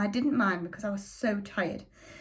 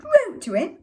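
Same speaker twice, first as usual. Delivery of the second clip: much higher, much louder scornful shout; scornful father; 13 semitones higher, 7 dB louder than usual. A narrator's reading. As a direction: blast her words back with contempt. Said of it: "And Father shouted".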